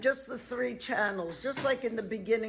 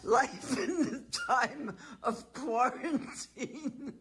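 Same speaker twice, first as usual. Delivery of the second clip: mock announcer; 3 semitones higher, slower than usual. Mock announcer title, laughing.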